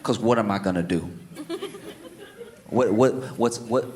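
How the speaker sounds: low, soft worried mutter; quiet dread in the stall; a hint of hushed panic.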